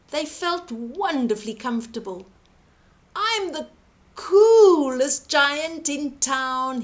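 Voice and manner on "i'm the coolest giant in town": happy cry. A narrator's reading. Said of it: "he cried".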